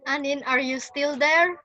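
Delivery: breaking up on a laggy line; laggy video call. Real, not acted. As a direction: voice over a bad video call. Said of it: "My connection is bad".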